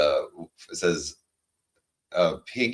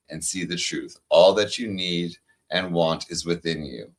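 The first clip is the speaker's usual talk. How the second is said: card reading; 2 semitones lower than usual. Acted. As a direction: read it like a gentle affirmation, unhurried. Reads oracle card aloud.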